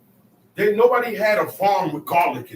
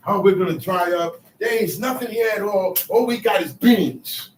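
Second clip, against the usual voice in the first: mock whiny complaining; 4 dB louder than usual. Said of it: "So they're complaining".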